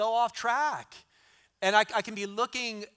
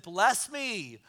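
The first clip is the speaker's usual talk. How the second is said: pleading Jacob; 4 semitones higher, slower than usual. Retold or imitated. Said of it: "this was what Jacob said".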